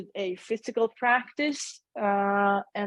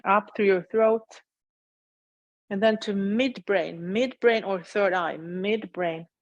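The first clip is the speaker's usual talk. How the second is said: unhurried guiding voice with long pauses; measured meditation-teacher delivery; guided meditation. Acted. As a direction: lead them gently through a body scan, leaving space after each phrase. Leads a meditation.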